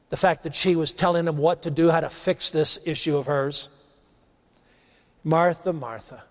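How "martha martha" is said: tender, much softer call of her name; gently calm a stressed friend; Jesus softly calling Martha's name, full of compassion; endearing. Acted. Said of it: "It's endearing".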